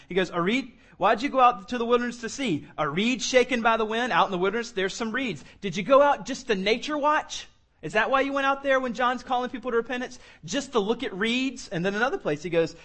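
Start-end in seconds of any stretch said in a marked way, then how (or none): 0.3-11.7 higher, teasing mockery that slows at the end; sarcastic questions. Jesus teases the crowd about nature watching, raised sarcasm. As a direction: ridicule the idea of going out to watch reeds. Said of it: "throwing some crazy sarcasm".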